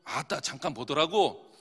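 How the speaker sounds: low, slow Jeolla-accent demo; Jeolla dialect. Shown as a demonstration. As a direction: drawl it like a Jeolla local. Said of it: "전라도".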